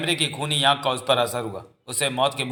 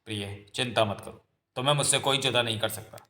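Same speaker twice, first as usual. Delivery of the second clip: gentle reassurance; 2 semitones lower, 5 dB quieter than usual. Acted. Young man calming his frightened beloved, gentle reassurance. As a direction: soothe a worried sweetheart quietly.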